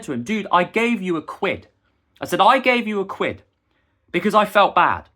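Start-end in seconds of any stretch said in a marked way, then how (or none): 0.2-1.7 slow, higher, stressing gave; retold annoyed retort. Retold argument, first take. 2.4-5.1 slow, higher and louder, insisting; retold louder retort. Repeats it louder in argument.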